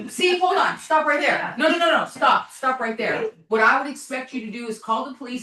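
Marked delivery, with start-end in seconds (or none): 0.1-3.3 raised, firm stop-him voice; urgent interruption. Real, not acted. Cutting him off, objecting.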